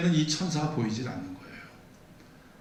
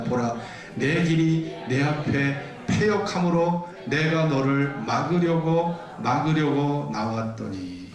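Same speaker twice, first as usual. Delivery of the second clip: measured, even read-aloud cadence; scripture reading. Acted. Preacher reads donkey passage with congregation, measured scripture reading. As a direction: lead the congregation steadily through the verses.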